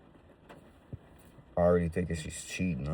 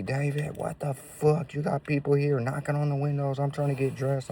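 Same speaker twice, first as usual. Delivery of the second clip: higher, mock-exasperated girlfriend voice; imitating annoyed girlfriend; 9 semitones higher than usual. Girlfriend calling him out about people at the windows, higher mock-annoyed voice. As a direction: play her fed up and calling him out.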